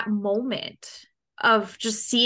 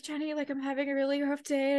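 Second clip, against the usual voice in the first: tearful complaint; 3 semitones higher, 6 dB quieter than usual. Retold or imitated. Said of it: "man that cries".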